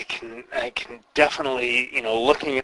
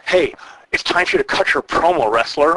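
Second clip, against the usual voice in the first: mock interviewer; 5 semitones higher, 3 dB louder than usual. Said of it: "It's awful stuff".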